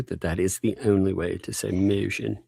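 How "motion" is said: put-on vowel in "motion"; odd pronunciation. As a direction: say "motion" with a deliberately skewed vowel. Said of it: "not heard you say the word motion normally".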